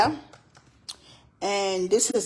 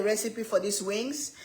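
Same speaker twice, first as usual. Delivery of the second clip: whisper; 6 dB quieter than usual. Real, not acted. Whispered aside recipe plug.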